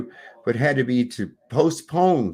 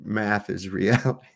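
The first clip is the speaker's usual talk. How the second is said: hammed-up lecture to a science denier; mock science rant. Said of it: "I can't even say that with a straight face".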